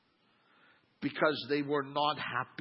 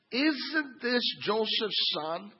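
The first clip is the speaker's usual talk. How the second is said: mock sneer; 7 semitones higher, 3 dB louder, much slower than usual. Mocking the townspeople.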